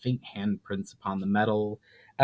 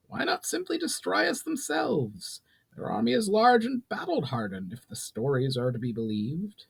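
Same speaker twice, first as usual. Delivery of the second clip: higher, commanding goblin ruler voice; a proud goblin lord laying down terms; goblin chief Brawl; 10 semitones higher, 4 dB quieter than usual. Acted. Brawl challenges the elf.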